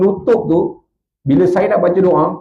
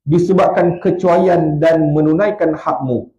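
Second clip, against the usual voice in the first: mournful recited lament. Acted. Preacher recites a weeping man's lament, grieving. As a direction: lament it as a penitent.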